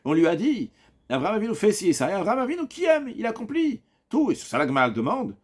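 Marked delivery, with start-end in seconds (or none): 1.1-4.3 high, insistent acted quote; emphatic claim. Teacher argues Rav's side for students, emphatic claim. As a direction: press the point in a raised pitch.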